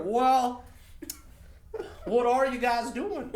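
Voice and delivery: high, loud, drawn-out Irish-Canadian officer; Irish Canadian border officer. Retold or imitated. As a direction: question them slowly in a mock Irish-Canadian accent. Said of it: "this Irish Border Patrol dude".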